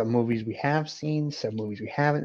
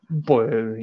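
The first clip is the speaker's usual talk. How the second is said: boing sound effect; 5 dB louder than usual. Pretend. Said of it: "You gotta type it out how it, how you say it".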